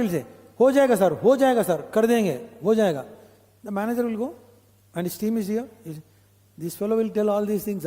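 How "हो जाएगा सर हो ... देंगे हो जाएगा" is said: quick, slightly raised, compliant assurances; mock an agreeable subordinate, rattling it off; passive yes-man. Employee placating the manager to his face, mock compliant. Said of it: "passive in front of manager".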